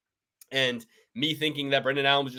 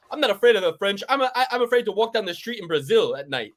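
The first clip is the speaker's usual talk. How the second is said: Moicano impression; 5 semitones higher than usual. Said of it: "He's like".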